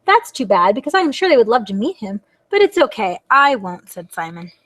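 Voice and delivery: expressive storybook reading; lively storytime delivery; reading to children. Acted. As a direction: read the dialogue aloud for little listeners. Reads a picture book aloud.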